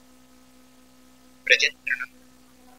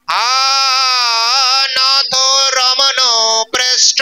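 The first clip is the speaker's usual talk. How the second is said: lamenting cry; 3 semitones higher, 3 dB louder, much slower than usual. Acted. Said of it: "তখন শ্রীমতী রাধারানী কাঁদছেন".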